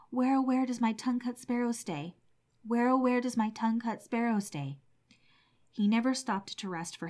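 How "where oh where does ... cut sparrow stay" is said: raised, higher calling through the woods. Acted. Old man searching the bamboo for his sparrow, calling out. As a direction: call for the sparrow, a little louder. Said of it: "stopping at every clump of bamboos to cry".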